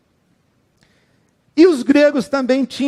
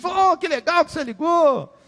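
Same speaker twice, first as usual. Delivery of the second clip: happy greeting; 6 semitones higher, 5 dB quieter than usual. Retold or imitated. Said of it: "fica feliz".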